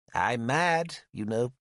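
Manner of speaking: calm, matter-of-fact; reasonable voice. Acted. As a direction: state it sensibly. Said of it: "he said in a reasonable voice".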